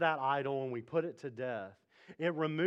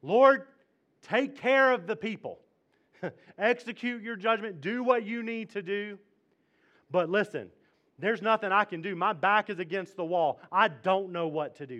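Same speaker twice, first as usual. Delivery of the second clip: raised, pleading cry to God; earnest prayer; 4 semitones higher, 5 dB louder than usual. Pretend. Preacher voicing a desperate prayer, pleading. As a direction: plead loudly with your back against the wall. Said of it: "we can pray something like Jehoshaphat".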